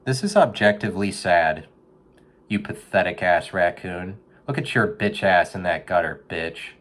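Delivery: mock insult. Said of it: "That's what I told him".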